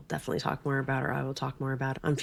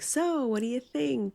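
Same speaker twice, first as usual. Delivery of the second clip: gentle asking; 10 semitones higher than usual. Retold or imitated. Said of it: "I tried to be like".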